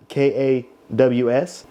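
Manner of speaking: "K A W S" spelled slowly, each letter separate. Shown as a demonstration. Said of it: "this is of the Kaws design".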